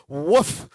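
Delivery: low spoken "woof"; a single low mock bark; imitated bark. Edwina barks back at her husband, imitated bark. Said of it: "they're a barking couple".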